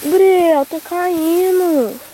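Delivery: calling out. Real, not acted. Mother warning son it's spilling.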